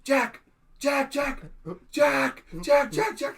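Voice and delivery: high, loud repeated calls; re-enacted screaming. Acting out screaming for Jack in his sleep, re-enacted screaming. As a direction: yell the name over and over, high. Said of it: "And I started screaming, Jack".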